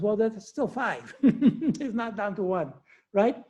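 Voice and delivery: laughing through the words, slowed down; a real amused chuckle while making the point; chuckling. Real, not acted. Teacher laughing to the class about five wise virgins, chuckling.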